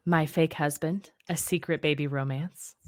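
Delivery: sultry perfume ad. Pretend. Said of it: "can you use your sultry voice".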